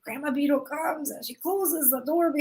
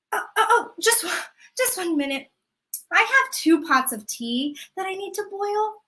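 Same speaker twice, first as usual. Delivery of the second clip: put-on higher, pleading old woman; grandma stalling; 4 semitones higher than usual. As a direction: sweetly beg for one more minute. Grandma stalling Death again.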